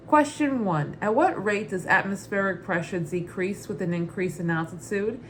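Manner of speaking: put-on light New York Brooklyn accent. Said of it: "read the question in my Muddets Berry Brooklyn accent".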